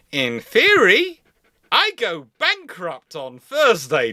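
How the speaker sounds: high, slow, stretched-out worry; anxious inner voice. Retold or imitated. A freelancer fretting over a late paycheck, high and slow. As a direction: spell out the doom slowly and high. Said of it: "looking at it going".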